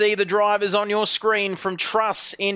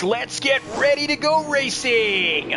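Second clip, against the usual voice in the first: slow, shouted ring-announcer call of let's get ready to go racing; big arena announcer shout; 5 semitones higher than usual. Acted. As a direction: stretch it out like a fight announcer. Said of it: "announcer race start call".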